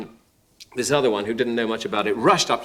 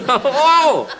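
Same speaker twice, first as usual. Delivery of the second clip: ordinary delivery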